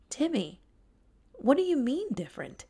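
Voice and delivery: lightly voiced confused friend; puzzled tiger Tyler.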